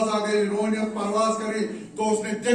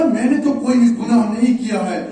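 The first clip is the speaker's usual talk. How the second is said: impassioned plea; 2 semitones higher, 6 dB louder than usual. Retold or imitated. Son pleading his innocence from the gallows, loud. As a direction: cry out your innocence from the gallows.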